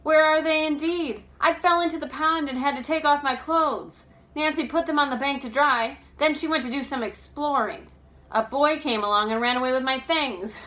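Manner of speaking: loud, high, exasperated telling; indignant about her lost clothes; exasperated girl character. Acted. George tells her mishap.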